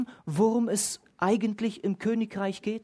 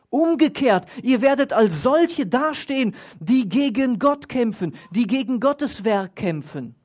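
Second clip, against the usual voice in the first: loud, higher warning; lauter Ruf; 5 semitones higher, 4 dB louder than usual. Retold or imitated. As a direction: call it out as a stern warning. Gamaliel warnt den Rat laut. (laute, eindringliche Warnung)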